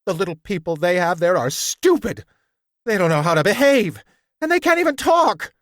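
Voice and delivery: high, loud, fast and indignant; a small ape protesting shrilly; talking monkey squealing his outrage; shrill monkey voice. A narrator's reading. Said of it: "he shrilled".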